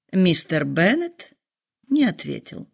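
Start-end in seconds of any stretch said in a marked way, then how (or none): none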